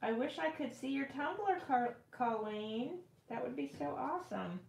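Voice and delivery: talking around something in mouth; mouth full. Real, not acted. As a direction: say it with a cap between teeth. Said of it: "Sorry, I had my top in my mouth".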